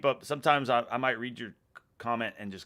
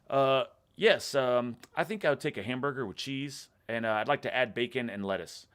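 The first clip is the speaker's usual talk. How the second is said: imitated American accent; 2 semitones higher than usual. Retelling a British guy's burger order in an American accent. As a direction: order like someone playing an American. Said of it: "a British guy doing an American accent".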